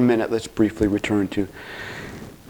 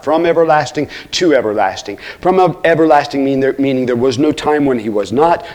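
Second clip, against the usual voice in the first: raised, emphatic pulpit voice; fervent preaching; 3 semitones higher, 6 dB louder than usual. Real, not acted. Preacher proclaiming God's eternality to the congregation, fervently. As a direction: preach it with weight on key words.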